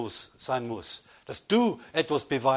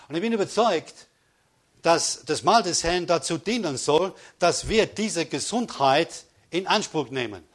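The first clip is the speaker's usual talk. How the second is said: louder, driving sermon delivery; emphatic preaching; 2 semitones higher, 5 dB louder than usual. Real, not acted. Preacher urging the congregation to claim healing, emphatic preaching. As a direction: preach it out with conviction.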